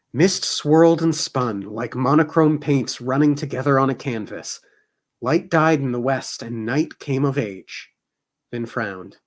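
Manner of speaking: measured novel reading voice; story narration. A narrator's reading. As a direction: read it like an audiobook. Reads novel aloud.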